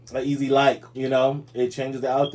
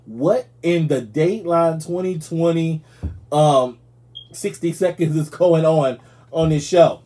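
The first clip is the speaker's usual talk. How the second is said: incredulous outburst; 4 semitones higher, 6 dB louder than usual. Real, not acted. Disbelief at Tiger King show.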